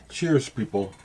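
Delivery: smacking lips while drinking. Real, not acted. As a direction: wet mouth sounds between sips. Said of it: "pardon me for smacking my mouth".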